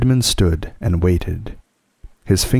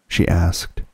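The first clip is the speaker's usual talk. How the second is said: ordinary delivery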